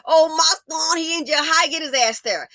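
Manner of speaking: high, mock mother's lament; wailing mother. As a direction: imitate a mother fretting over her son. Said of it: "And Mammy sitting up here".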